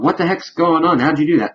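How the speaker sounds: high, lightly startled retelling; a hint of a shocked young woman; startled Kaya. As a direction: toss it up in mock alarm. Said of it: "She's going".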